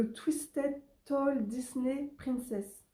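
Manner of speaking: English title in a real French accent, slowly. Real, not acted. Vlogger reading out an English book title, French accent. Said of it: "désolée pour mon accent anglais".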